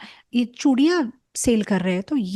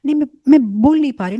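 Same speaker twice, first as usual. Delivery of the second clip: crying; 5 semitones higher, 8 dB louder, faster than usual. Acted. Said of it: "इतना क्यों रो रही हो?".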